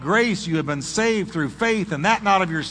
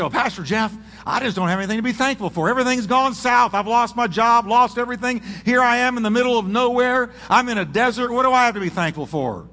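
complaining churchgoer; 6 semitones higher than usual. Retold or imitated. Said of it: "You say".

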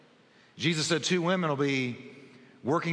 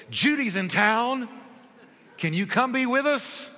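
higher, slower, hopeful motherly invitation; mother's eager call; 9 semitones higher, 4 dB louder than usual. Retold or imitated. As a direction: play the mother inviting her son over. Mother's phone invitation imitated.

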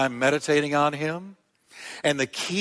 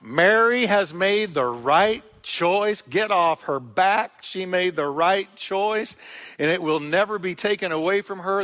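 firm defense; 3 semitones higher than usual. Acted. Jesus defends Mary to Martha.

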